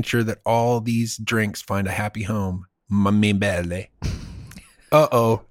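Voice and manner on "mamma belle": put-on Italian accent. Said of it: "Did I use an accent?".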